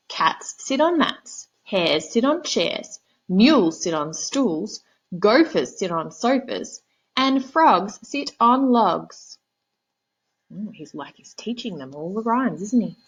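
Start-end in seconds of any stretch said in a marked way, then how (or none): 0.1-9.4 high, slow know-it-all cat voice; bossy cat. Acted. Cat lecturing the frog on rhymes, high slow smug voice.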